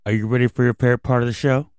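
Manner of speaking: put-on fast, hyped kids host call; rally the kids fast; overbright kids party host. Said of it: "I can't hear you".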